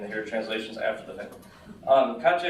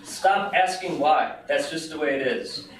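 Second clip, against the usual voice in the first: raised, slow, firm rebuke, acted; mild scolding; 4 semitones higher, 3 dB louder, slower than usual. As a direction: shut the questioning down firmly. Scolding friend in an acted quarrel.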